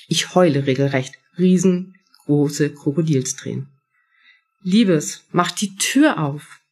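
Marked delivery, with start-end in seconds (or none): 4.6-6.6 gentle, slightly slowed mother's plea; loving. Acted. Mother coaxing daughter through the bathroom door, lovingly. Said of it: "Liebevoll klingen die Worte meiner Mutter".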